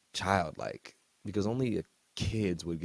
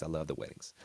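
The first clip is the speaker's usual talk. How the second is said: quieter, lower second take; softer repeat; 3 semitones lower, 6 dB quieter, faster than usual. Shown as a demonstration. Host backing off his wedding joke, softer and lower. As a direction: say "I love the weddings" again softly and lower. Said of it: "Just kidding".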